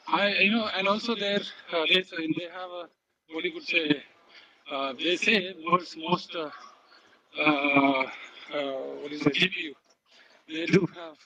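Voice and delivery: breathless, panting between words; winded, talking while walking on a treadmill; out of breath. Real, not acted. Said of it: "I'm out of breath".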